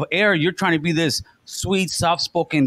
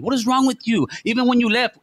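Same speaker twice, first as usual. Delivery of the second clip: raised, hurt demand; heated plea; 5 semitones higher than usual. Real, not acted. Heated argument with former cohost.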